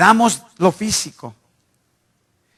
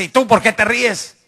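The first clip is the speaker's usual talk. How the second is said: mock-indignant, higher-pitched challenge; imitated annoyed sister; 5 semitones higher than usual. Annoyed sister turns on the brother who laughed, mildly mock-angry. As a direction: retort like an irritated mother caught being laughed at. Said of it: "voltea ahí enojada y me dice".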